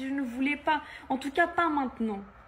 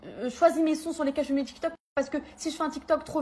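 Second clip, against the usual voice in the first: louder and louder, bitter, mocking permission; exasperated rant; 2 semitones higher, 5 dB louder than usual. Real, not acted. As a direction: vent the anger, building to a loud peak. Rising rant about controlling boyfriend.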